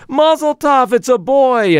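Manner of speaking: high, proud Brooklyn Jewish shepherd; Brooklyn Jewish accent. Acted. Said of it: "a nearby shepherd proclaims".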